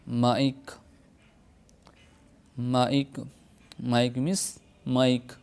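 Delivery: माइक with a drawn-out आई; English word mike. Shown as a demonstration. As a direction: stretch the आई in माइक. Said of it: "यानी खींच कर पढ़ा जाता है". (माइक, आई को खींच कर)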